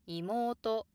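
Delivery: 妹 rises after the first sound and stays high; accent at the end. Shown as a demonstration. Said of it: "downstep only when something else follows".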